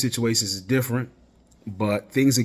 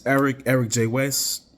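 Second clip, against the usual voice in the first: tripping on the show's name; tongue-tied sign-off with a false start; stumbling over words. Real, not acted. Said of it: "I'm stuttering and my words is all over the place".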